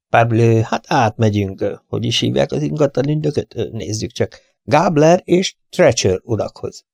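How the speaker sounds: lightly voiced Poirot, musing and unhurried; a hint of the fussy detective thinking aloud. Poirot to his friend, musing where to go next, lightly voiced.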